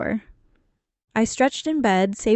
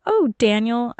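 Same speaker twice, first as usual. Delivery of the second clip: purred; 2 semitones higher than usual. Acted. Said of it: "I purred".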